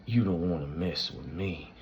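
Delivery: imitated non-rhotic bayou Southern accent. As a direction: do a wrestler's old-school Louisiana accent, dropping the R. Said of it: "He did the non-rhotic Southern accent".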